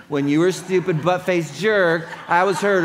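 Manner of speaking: mock insult. Pastor demonstrating what not to say, a laughing mock insult. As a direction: ham up a childish jab. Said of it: "It's not saying".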